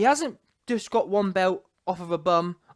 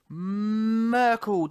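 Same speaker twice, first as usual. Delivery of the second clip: "Merkel" stretched long and slow; drawn-out emphasis. Real, not acted. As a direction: hold the first syllable of "Merkel" for ages. Relishing his catchword for knockouts.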